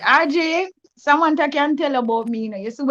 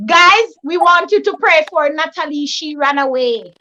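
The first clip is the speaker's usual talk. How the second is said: lightly mimicked church appeal, slowing at the end; altar-call announcer. Church sister's gossip reaching the altar call, mock prayer appeal. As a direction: imitate an earnest call for prayer. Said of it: "it reach where it turn altar call".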